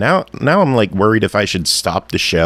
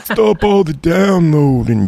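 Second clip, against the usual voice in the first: robot voice; 9 semitones higher, slower than usual. Pretend. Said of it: "like a sexy computer".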